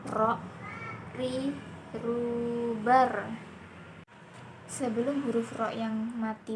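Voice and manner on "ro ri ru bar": "Ro, ri, ru, bar" with tongue tip touching the front palate. Shown as a demonstration. Teacher giving examples of the letter Ro, tongue-tip r. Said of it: "menyentuhkan lidah terdepan".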